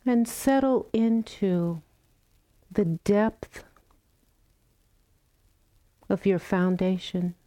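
calm, unhurried meditation guidance with long pauses; guided meditation. Real, not acted. Teacher guiding the group into loving kindness practice, calm meditation voice. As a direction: gently invite them to settle, phrase by phrase.

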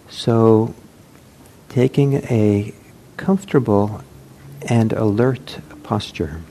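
measured meditation guidance with long pauses; unhurried phrases, letting each instruction settle; guided meditation. Real, not acted. Teacher settling meditators into posture, guided meditation.

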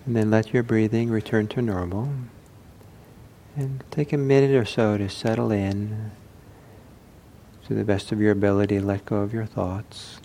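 unhurried guidance with long silences; calm meditation teacher, leaving room between phrases; guided meditation. Acted. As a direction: lead the sitters gently into stillness.

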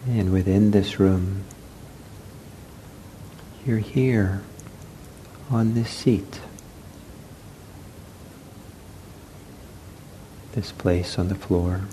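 unhurried meditation guidance with long pauses; guided meditation. Real, not acted. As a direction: guide them gently into the body, leaving space. Leads a seated meditation.

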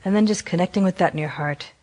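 gentle meditation guidance with long pauses; guided meditation. Acted. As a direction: guide them unhurriedly, leaving long silences between phrases. Leads a guided compassion meditation.

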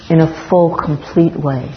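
emphasize the word full, then settle on complete way; full set out with deliberate weight; stress on FULL. Real, not acted. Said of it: "I want to emphasize the word full".

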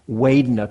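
Vedana said as "Wedana", W for V; Burmese-accent W. Shown as a demonstration. Teacher showing how the Burmese say it, Vedana with a W. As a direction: start Vedana with a rounded W sound. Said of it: "the V's are pronounced with the W's".

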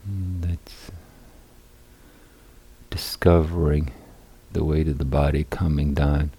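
unhurried guiding voice with long pauses; guided meditation. Real, not acted. Teacher guiding seated meditators into balanced posture, calm guided meditation. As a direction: lead them calmly through settling the body, phrase by phrase.

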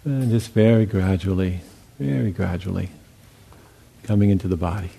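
calm, unhurried guiding voice with long pauses; guided meditation. Real, not acted. Teacher guiding meditators into listening to sounds and silence, calm meditation voice. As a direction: lead them gently, leaving long silences between phrases.

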